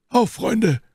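high-pitched rallying cry; Athos. A narrator's reading. Athos rallies his friends against the attackers, calling out. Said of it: "rief Athos".

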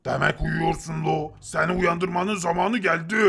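dim giant Tepegöz. Acted. Tepegöz tells Nop he did not get the invention, in a low dull voice.

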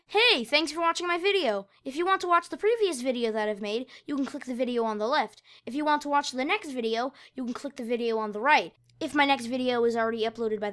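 bright, sing-song channel outro; outro read. Acted. Youtuber thanking viewers at the end of the video, upbeat. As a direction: read the end screen with cheerful energy.

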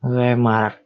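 Lemar, caramel sounded in reverse; backwards speech. Shown as a demonstration. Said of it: "this is my real live action attempt".

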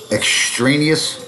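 extraneous said slowly, syllable by syllable; careful pronunciation. Shown as a demonstration. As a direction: stretch out extraneous, rising at the end. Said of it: "look up extraneous".

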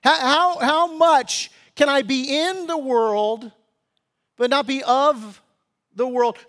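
a hint of a worldly Christian bargaining with himself; mock church member. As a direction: play the guy testing how close to the edge he can get. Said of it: "this attitude that says".

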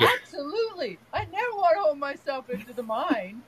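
playful retort. Retold or imitated. Grandmother answering her six-year-old grandson, playful retold retort. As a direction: lightly act out a cheerful comeback.

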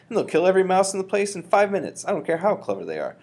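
loud, excited rush of ideas; crying out. A narrator's reading. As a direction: press the plan home loudly. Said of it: "I cried".

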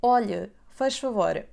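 "Olhe, faz favor" said slowly with stress on "olhe"; slow Portuguese demo. Shown as a demonstration. Teacher models a cafe phrase slowly for beginners. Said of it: "here are the sentences you may want to use".

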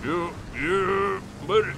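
lightly southern yeah yeah buddy; a mild country drawl on buddy; Gomer. Pretend. Partner teases that he sounds like a country character, mild southern. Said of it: "now you sound like Gomer".

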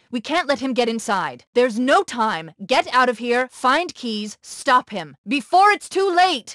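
high, pressing and rising to a shout; panicked warning climbing to a cry; urgent plea. Acted. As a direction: urge him to stop the captain before it's too late. Cortana urgently warning the Chief.

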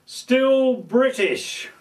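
mock-patriotic boast; proud declaration. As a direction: savour each word like a triumphant punchline. Proud map tour punchline.

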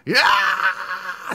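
strained scream kept from getting too loud; held-back scream. Acted. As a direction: scream while reining in the volume. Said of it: "trying not to scream too loud".

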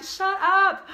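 sudden high loud shout; shouting down the inner people pleaser. Shown as a demonstration. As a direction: bark it out to silence the inner voice. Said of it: "this is my loud voice".

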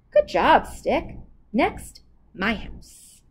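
lightly voiced pleased trickster; a hint of a cocky spider; Anansi voice. Anansi praises the magic stick, lightly voiced.

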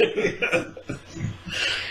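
high breathy burst of laughter; big laugh. Real, not acted. Cracking up at his own story, high laughter. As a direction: crack up at your own joke.

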